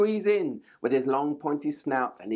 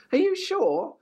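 doubtful hen; 7 semitones higher than usual. A narrator's reading. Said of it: "clucked Hen".

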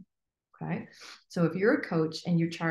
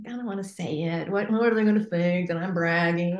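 mock hesitant worry. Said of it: "would you be like".

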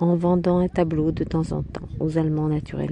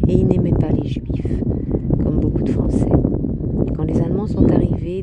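louder, relentless telling; inexorable; 5 dB louder, faster than usual. A narrator's reading. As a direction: press on forcefully with the accusation. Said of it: "continua Martine inexorablement". (récit implacable, voix plus forte)

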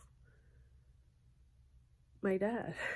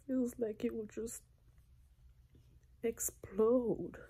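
tearful crying; 4 semitones higher than usual. Real, not acted. Crying to her viewers about feeling pain, tearful. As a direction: let the hurt spill into the voice. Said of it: "I don't know why I'm crying".

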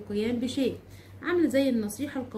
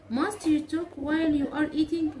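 slow, higher critical question, stress on you; mild reproach; 5 semitones higher, much slower than usual. Shown as a demonstration. Teacher modeling a critical question to students, mildly reproachful. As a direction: chide someone for eating while talking. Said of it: "أقول إيه؟".

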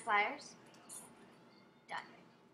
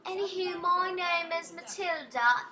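Matilda; 3 semitones higher, 4 dB louder than usual. Acted. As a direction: play the game lady in amateur British. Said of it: "I'm trying to go British".

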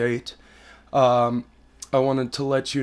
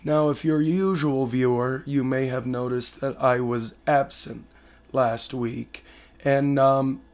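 hoarse sick voice. Real, not acted. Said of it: "I sound like shit right now".

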